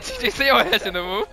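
fast quote through laughter; laughing quote. Retold or imitated. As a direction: repeat it while cracking up. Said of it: "That nigga said".

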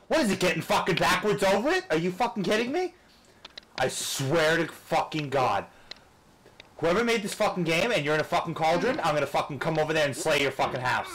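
high, loud angry shouting; furious yelling. Real, not acted. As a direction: rage at the game maker. Raging at the game.

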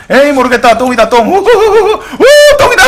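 wild, hammed-up whooping that climbs very high; reckless giving up. Streamer acting out a player throwing the game, manic abandon. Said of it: "이렇게 하면서 게임을 던집니다".

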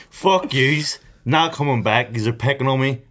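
"Fuck yous" laughed out; giggling through the note; laughing. Retold or imitated. Laughing as he repeats his farewell note.

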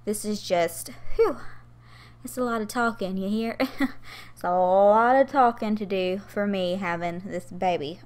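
winded, puffing between phrases; breathless, short of air; out of breath. Real, not acted. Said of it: "I'm still out of breath".

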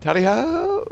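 high, rising holler on the charge; playful battle cry. Pretend. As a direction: call it out like a charge. Game battle cry while leaping.

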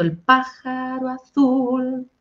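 "pájaro" accented on the first beat, sung slowly and high; stress on the first beat. Shown as a demonstration. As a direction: lean on the "PÁ" of "pájaro". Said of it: "fíjate que tiene un acento".

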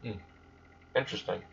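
flat, uninterested monotone. Retold or imitated. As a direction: say it with no feeling at all. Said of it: "With his monotone voice".

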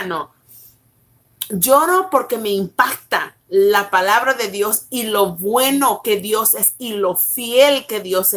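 fervent reading of the text; scripture reading. Acted. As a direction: preach the words of the text. Reads her own scripture revelation.

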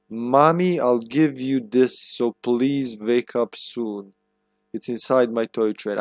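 light mock Russian accent, slowed as if reading a child's note; hammed-up Russian accent, slow and halting; bad Russian accent. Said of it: "voiced bad English with Russian accent".

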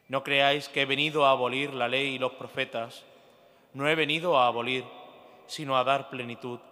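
ordinary talk, nothing marked

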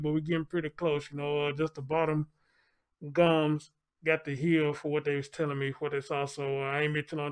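muffled behind a mask; talking through a mask; through a face mask. Real, not acted. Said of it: "excuse the mask".

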